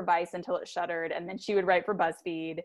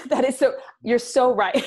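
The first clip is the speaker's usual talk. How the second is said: laughing; 5 semitones higher, 4 dB louder than usual. Real, not acted. Laughing at roast.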